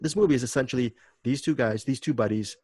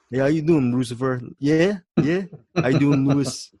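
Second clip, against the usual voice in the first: breezy bro greeting, slightly raised; Sue's voice; 3 semitones higher, 5 dB louder than usual. Retold or imitated. Podcast host imitates the character Sue greeting a friend, light bro voice. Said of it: "he kinda talks like this".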